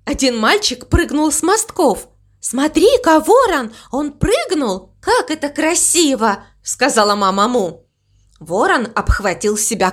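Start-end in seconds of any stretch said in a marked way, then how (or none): 2.4-6.4 high, delighted cow voice; admiring excitement. Acted. Mama Mu shows the crow a diver, high and admiring. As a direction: lift the pitch in wonder.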